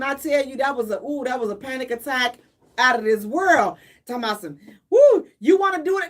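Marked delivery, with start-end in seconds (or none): 4.9-6.1 mock offer. Mocking people offering drugs.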